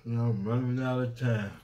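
ordinary talk, nothing marked

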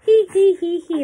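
high, acted storybook tee-hee; giggle. A narrator's reading. Elephant begins to giggle, high acted hee-hee. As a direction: giggle it out in spelt hee-hees. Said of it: "He began to giggle".

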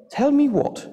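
high, questioning mum; mother's voice. A narrator's reading. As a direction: call out high like a mum demanding answers. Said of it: "came the voice of their mother".

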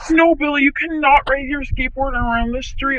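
loud, high mock scold. Mom scolds Billy about his skateboard, loud mock scold. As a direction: tell the kid off from across the room.

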